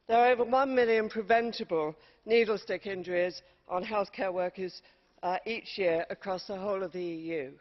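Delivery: winded from climbing stairs; breathless after running upstairs; out of breath. Real, not acted. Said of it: "I'm, uh, out of breath running up those stairs".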